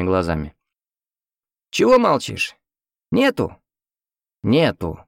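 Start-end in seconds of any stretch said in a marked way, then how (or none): 1.7-3.6 put-on high, thin voice of a nosy old man. A narrator's reading. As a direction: play a curious old patient in a high voice. Old man questions the hero. (высокий старческий голос)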